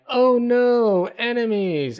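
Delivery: high, loud fake alarm; mock panic. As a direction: squeal it like a panicked victim. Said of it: "It's like".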